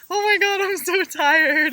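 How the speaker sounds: high, loud exhausted whine, dragging slowly; whiny complaint. Retold or imitated. Tired passenger whining to the driver, a high hammed-up moan. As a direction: ham up a worn-out passenger's moan.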